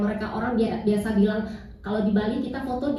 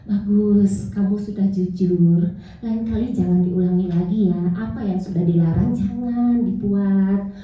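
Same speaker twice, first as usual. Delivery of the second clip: reassuring mother; 6 semitones lower than usual. Retold or imitated. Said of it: "saya bilang buat anak saya".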